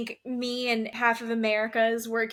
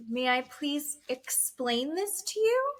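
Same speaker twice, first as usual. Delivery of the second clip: higher, slow mock-patient asking; careful polite request; 5 semitones higher, slower than usual. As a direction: imitate someone gingerly asking permission. Retold therapist calming an angry man.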